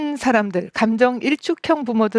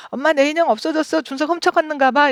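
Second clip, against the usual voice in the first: put-on higher, quicker child's complaint; upset child; 5 semitones higher than usual. Child complaining to mom that her doll was stolen. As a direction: whine like a small upset kid. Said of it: "이러고 막 화를 낸다면".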